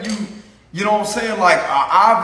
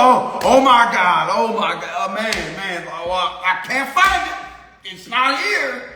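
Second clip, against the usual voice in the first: panicked search. Retold or imitated. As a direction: imitate someone frantically losing their wallet. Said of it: "They be like".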